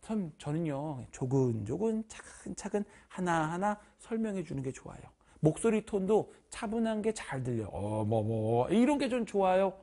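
slow, quiet, timid student voice; soft-spoken student. Retold or imitated. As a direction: speak it gently like a shy student who likes calm lectures. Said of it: "근데 또 반대로".

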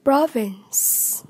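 "Province" stressed on PRO; stress on first syllable. Shown as a demonstration. Teacher modelling vocabulary for learners, "Province" stressed on PRO. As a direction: hit PRO in "Province", lighter vince. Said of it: "nhấn âm một".

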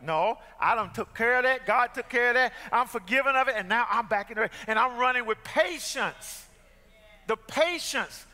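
rhythmic sermon cadence, building; preaching. Acted. Pastor preaching endurance to church, fervent sermon delivery. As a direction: preach it to the congregation, steady and driving.

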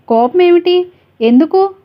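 jolted disbelief at the news; shocked question. A narrator's reading. Friend hears shocking news. (ఆశ్చర్యంతో కూడిన ప్రశ్న)

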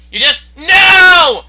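loud, high, drawn-out refusal; outraged cry, stretched; protesting yell. Real, not acted. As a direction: break into a long shout of protest. Opponent escaping in game.

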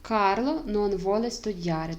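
slow, careful Italian read-out; slow model answer. Shown as a demonstration. Teacher reading the Italian answer to her students, slowly. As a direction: spell the answer out slowly for learners. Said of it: "Тепер перевіряємо".

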